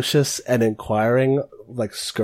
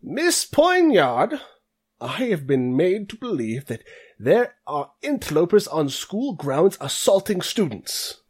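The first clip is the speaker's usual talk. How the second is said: put-on older man's voice; 6 semitones higher than usual. Dean confronting student about interlopers, pompous old voice. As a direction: sound like a stuffy old dean scolding. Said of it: "you hear an older voice say".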